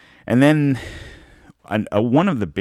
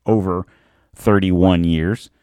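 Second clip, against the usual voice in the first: slow, drawn-out "thirty-one years" with a lift on "years"; stress on thirty-one years; slower than usual. Shown as a demonstration. Host stressing the years to his listeners, slow and drawn out. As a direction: lean hard on "thirty-one years", stretching it out. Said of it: "I'm emphasizing the thirty-one years".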